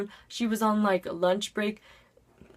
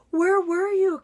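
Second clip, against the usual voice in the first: loud, higher, eager question; excited classmates; 10 semitones higher, 5 dB louder, slower than usual. Retold or imitated. Classmates greeting her return, loud and eager. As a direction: blurt it like curious kids.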